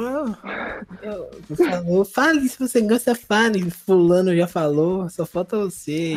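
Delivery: lightly voiced pushy schoolgirl; mocking girl's voice. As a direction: imitate the girl insisting he admit it. Girl pressing him, childhood story.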